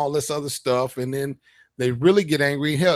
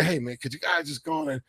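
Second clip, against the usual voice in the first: nice pleading; 3 semitones lower, 8 dB quieter than usual. Retold or imitated. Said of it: "in a nice way to".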